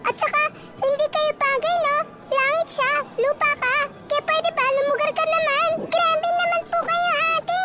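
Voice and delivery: put-on catty rival girl. Girls fighting over fiancé Jungkook, bratty and high. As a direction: taunt her like a spoiled rival.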